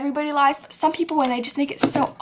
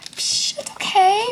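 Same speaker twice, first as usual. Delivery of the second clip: breezy dismissal; 7 semitones higher, much slower than usual. Retold or imitated. Forgiving her good friends.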